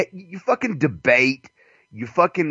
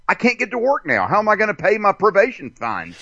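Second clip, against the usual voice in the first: mock whiny complaint; 8 semitones higher, faster than usual. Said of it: "they're like".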